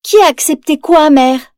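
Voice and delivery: ask, clueless and curious; puzzled question. Acted. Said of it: "demande Mérida".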